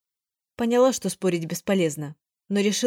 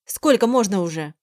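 fed-up yell; 4 dB louder than usual. Acted. Fed up, still shouting.

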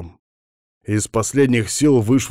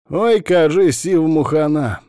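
smirking quip; 8 semitones higher, 6 dB louder than usual. A narrator's reading. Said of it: "усмехнулся Капа".

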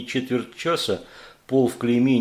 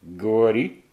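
monster command; 4 dB louder, slower than usual. Acted. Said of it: "велел Кусака".

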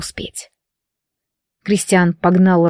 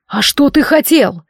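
higher, angry challenge; thundering demand; 5 semitones higher than usual. Acted. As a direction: throw the question back at him in anger. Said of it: "прогремел дракон". (гневный раскатистый вопрос)

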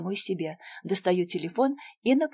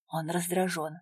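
ordinary delivery

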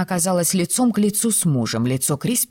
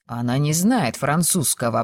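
plain reading voice

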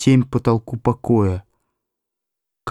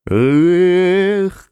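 sharp, loud exclamation of annoyance; angry vexed exclamation; 7 semitones higher, 3 dB louder than usual. A narrator's reading. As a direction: bark it out in vexation. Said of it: "злобно и досадуя сказал хирург".

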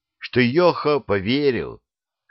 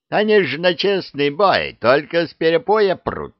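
higher, louder aggrieved complaint; indignant dragon; 8 semitones higher, 4 dB louder than usual. Acted. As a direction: rant like an offended dragon. (возмущённый дракон)

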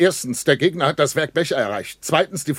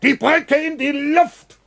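shouted even higher, each word drawn out; slow shout; 12 semitones higher, 3 dB louder, slower than usual. Acted. Bratke repeats the order to Friesenhahn, slower and higher shout. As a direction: stretch the yell out, desperate. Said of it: "und ruft".

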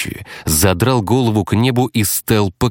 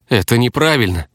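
lightly voiced outrage, a bit higher; indignant; 5 semitones higher than usual. Juliet objecting to the plan, mildly indignant. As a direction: protest as if wronged. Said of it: "возмутилась Джульетта".

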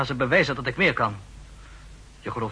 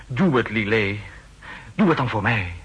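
urgent plea; 4 dB louder than usual. Acted. Pleading with Lillet for help.

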